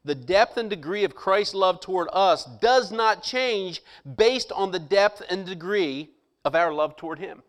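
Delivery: slow, deliberate second reading. Shown as a demonstration. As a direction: give every word its weight. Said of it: "I'm gonna read it one more time".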